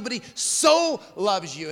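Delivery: SO drawn out slowly; emphatic, stretched SO before "loves you"; stress on SO. Shown as a demonstration. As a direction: lean long on the word SO. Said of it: "the emphasis with that extra word".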